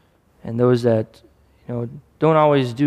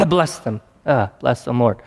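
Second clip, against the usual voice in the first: reluctant blessing. Acted. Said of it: "It was very hard".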